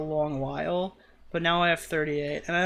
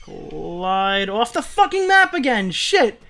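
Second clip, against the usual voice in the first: slow build to a higher, louder curse; real frustration; 3 semitones higher, 7 dB louder, slower than usual. Real, not acted. Player cursing a failed jump, frustrated outburst. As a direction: erupt as the jump fails.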